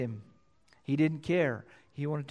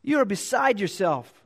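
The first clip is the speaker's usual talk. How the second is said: loud, higher, slowing rebuke to Paul; 5 semitones higher, 5 dB louder than usual. Acted. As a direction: call Paul out, loud and raised. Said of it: "Festus said with a loud voice".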